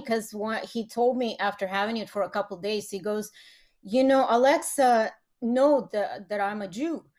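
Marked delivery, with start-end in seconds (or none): 3.8-7.0 slow start, lightly imitated Russian accent; shaky Russian accent. Dad telling his child about Alexa, imperfect Russian accent. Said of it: "I can't do the right Russian accent".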